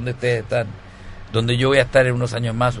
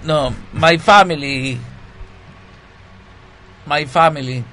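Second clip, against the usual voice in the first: broken English; 3 semitones higher, slower than usual. Pretend. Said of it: "hablar en inglés inventado".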